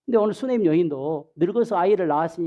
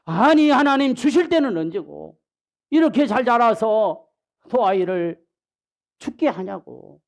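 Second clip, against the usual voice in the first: mock lament of a bereaved mother; wailing mother; 2 semitones higher than usual. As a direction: cry out at God over a dead son. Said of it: "울고불고".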